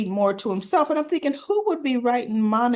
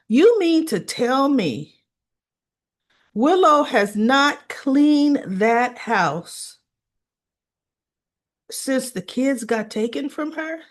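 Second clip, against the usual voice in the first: incredulous; 3 semitones higher, slower than usual. Real, not acted. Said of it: "incredulous rant to viewers".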